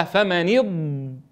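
فمن اض- stopping on a long drawn ض; held ض sound. Shown as a demonstration. Teacher to students, holding the ض to show its length. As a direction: hold the ض of اض. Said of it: "يعطي الضاد حقها من الاستطالة".

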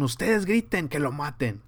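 mock instigator voice; inciting religious leaders. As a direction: egg the crowd on like a scheming leader. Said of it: "me imagino a los religiosos les decían".

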